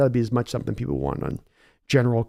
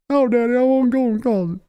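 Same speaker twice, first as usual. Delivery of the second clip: high, whining grown son pleading; a weak son whimpering to Daddy; whiny son; 8 semitones higher than usual. Acted. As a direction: son whining back at his bullying father.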